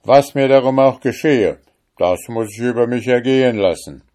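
loud, high stubborn refusal; defiant cry. Acted. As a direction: shout him down, unyielding. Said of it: "rief der Richter". (laut trotzig gerufen)

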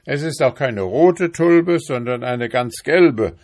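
husband snaps at his wife after endless questions; exasperated shouting. A narrator's reading. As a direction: let it all burst out fast and loud. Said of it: "schrie Balduin Brumsel".

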